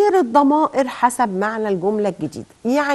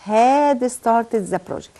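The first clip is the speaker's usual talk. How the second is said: slow repeat; much slower than usual. Shown as a demonstration. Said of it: "انا هعمل ايه".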